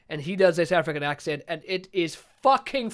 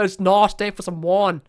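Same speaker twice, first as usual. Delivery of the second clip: Johannesburg accent demo; 5 dB louder than usual. Shown as a demonstration. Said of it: "I sounds become R sounds".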